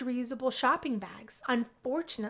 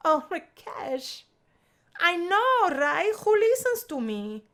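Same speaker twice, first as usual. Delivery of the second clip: mock exasperation; 6 semitones higher, 6 dB louder, slower than usual. Isabella mock complaint.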